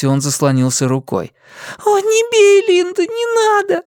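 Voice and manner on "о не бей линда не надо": put-on begging child. A narrator's reading. The boy shields his face, begging his mother. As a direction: beg her not to hit. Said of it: "boy shields himself".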